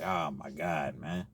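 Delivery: soft, low despair under the breath; quietly suffering from hunger; quiet groan. Retold or imitated. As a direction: sink into a hungry moan. Starving thought.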